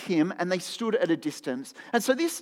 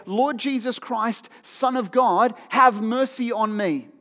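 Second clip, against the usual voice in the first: slow prayer; 3 semitones higher, slower than usual. Shown as a demonstration. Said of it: "we looked at this prayer".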